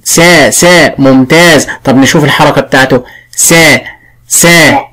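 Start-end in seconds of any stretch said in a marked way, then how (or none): 3.4-4.8 "سا" held with an open "a" vowel; open-mouthed vowel. Shown as a demonstration. Teacher shows the fatha vowel, open-mouthed "سا". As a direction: open the mouth on each separate "سا". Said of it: "بفتح فمي".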